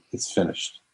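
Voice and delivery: despairing whisper. Retold or imitated. Suicidal man's last words.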